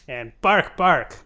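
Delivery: lightly barked "bark, bark", barely voiced as a dog; dog barking impression. Shown as a demonstration. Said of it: "It's my impression of a dog".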